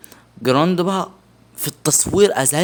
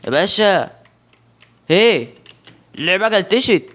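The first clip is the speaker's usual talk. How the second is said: exasperated calling out; 5 semitones higher, 4 dB louder than usual. Real, not acted. Game glitched, calling out.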